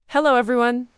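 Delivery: loud, high eager hello; excited greeting. Acted. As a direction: burst out proudly to the class. Boy presents his robot.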